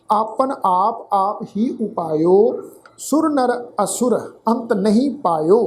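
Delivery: slow, careful scripture reading; slow recitation. Shown as a demonstration. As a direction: recite each phrase slowly for students. Recites scripture slowly for learners.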